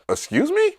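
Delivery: high-pitched questioning disbelief; mock affronted squeak; incredulous double take. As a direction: act out a taken-aback reaction, voice shooting up. Retelling his offended double take.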